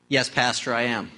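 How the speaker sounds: low, soft lightly voiced drunk; drunk man. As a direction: mumble it low like the old drunk. Drunk answering the pastor.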